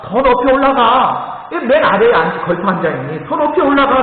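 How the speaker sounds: urging father. Retold or imitated. Father urging son up tree.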